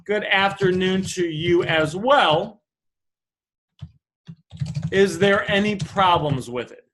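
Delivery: slow, courteous reply in measured phrases; mirrored polite tone. Acted. Buyer mirroring a customer's pleasantries, slow and polite. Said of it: "mirror the type of tone and say".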